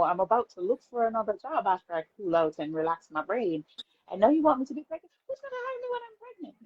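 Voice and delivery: mock panicked refusal; panicked rant. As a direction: rattle it off in disbelief and panic. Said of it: "my first reaction was not".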